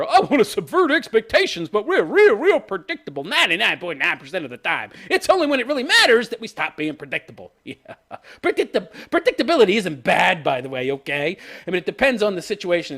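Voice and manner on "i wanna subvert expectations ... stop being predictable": mock showrunners. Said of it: "the showrunners with all their".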